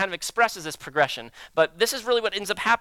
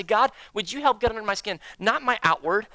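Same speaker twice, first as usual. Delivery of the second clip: earnest prayer. Retold or imitated. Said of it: "posture yourself with God and say".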